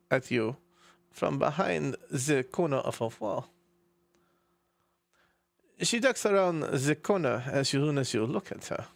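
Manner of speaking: halting narration in a put-on German accent. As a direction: pick through the words with a German accent. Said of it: "right, German accent".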